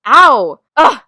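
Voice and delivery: loud cry of pain, then a grunt; pained yelp. Acted. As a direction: yell as the blow lands. Hit during a fight.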